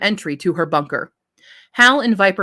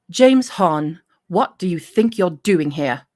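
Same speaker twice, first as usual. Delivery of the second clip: a Middle Eastern accent attempt that comes out British; British-sounding take; slower than usual. Reader trying Taliba's accent, sounding British instead. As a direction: slide into a British lilt by mistake. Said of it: "that was very British".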